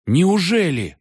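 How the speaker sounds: high, loud breathless disbelief; gasping in shock. A narrator's reading. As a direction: catch your breath in surprise. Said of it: "задохнулся Валька". (задыхаясь от изумления)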